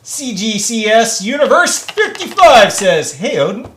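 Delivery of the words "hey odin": normal talking voice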